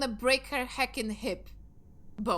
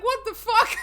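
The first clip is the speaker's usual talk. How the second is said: higher, louder, laughing mock outrage; imitating Junie; 12 semitones higher, 11 dB louder than usual. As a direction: play a baffled friend, half laughing. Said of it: "But Junie is like".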